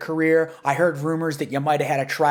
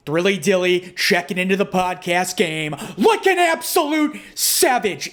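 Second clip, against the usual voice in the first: wrestling promo. Acted. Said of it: "I am the Thrill Ride".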